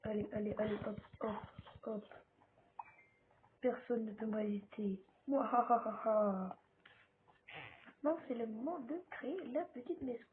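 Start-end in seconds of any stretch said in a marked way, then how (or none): 3.6-6.6 gloating villain laugh, loud; mustache twirling villain. Acted. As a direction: cackle like a cartoon villain. Villain boast while gaming.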